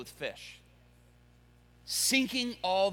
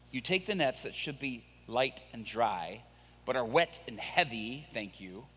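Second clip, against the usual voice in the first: sarcastic Peter; 5 semitones lower than usual. Acted. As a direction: mutter it with weary sarcasm. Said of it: "and he's like".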